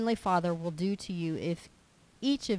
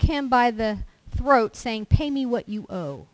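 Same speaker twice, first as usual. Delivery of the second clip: loud, forceful scripture reading; preaching scripture; 4 semitones higher, 7 dB louder than usual. Acted. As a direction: proclaim the parable to the congregation. Reads the parable aloud with force.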